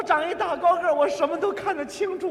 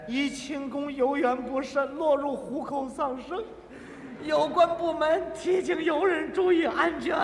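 newspaper notice; 4 dB quieter than usual. Retold or imitated. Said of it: "哪两句".

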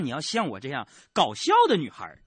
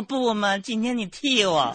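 mock coy whine to a coworker; cutesy whiny pleading; 5 semitones higher, slower than usual. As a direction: whine it like a spoiled child. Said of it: "我在那儿跟我同事撒娇".

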